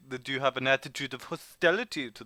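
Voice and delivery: put-on formal French-accented questioning. Informant probing traveller's hostility to the man, French accent. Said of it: "your French accent".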